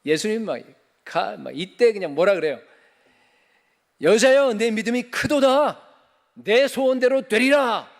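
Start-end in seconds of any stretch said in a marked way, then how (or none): 4.0-7.9 high, loud, slow ringing proclamation; Jesus solemnly blessing the kneeling woman; proclaiming Jesus. Acted. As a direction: declare it like Jesus granting her wish. Climactic quote of Jesus.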